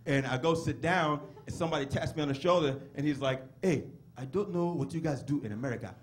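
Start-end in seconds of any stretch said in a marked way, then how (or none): 3.6-6.0 put-on classmate with a Nigerian accent; measured correction in a Nigerian accent. Nigerian classmate correcting the American newcomer, deadpan Nigerian accent. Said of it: "Your Nigerian impression is really spot on".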